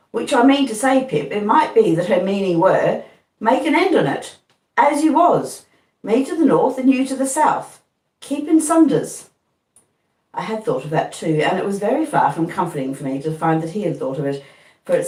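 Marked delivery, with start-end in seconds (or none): 0.1-9.3 simple Joe spelling it out; Joe's voice. A narrator's reading. Joe's reasoning.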